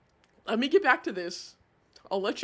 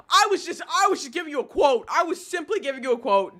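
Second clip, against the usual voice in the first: quick, raised self-defence; flustered protest; 3 semitones higher, faster than usual. Real, not acted. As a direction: plead your innocence in a rush. Protests at being blamed for a quote.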